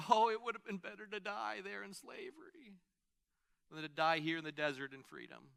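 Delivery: light mock whine, rising on Oh; hint of a grumbling Israelite overreacting; mock whiny complaint. Pastor imitating the complaining Israelites, mild mock whine. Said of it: "over complaint".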